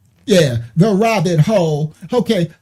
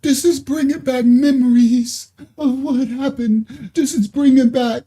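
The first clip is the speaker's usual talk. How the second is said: mock weepy woman; 5 semitones higher than usual. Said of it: "She like".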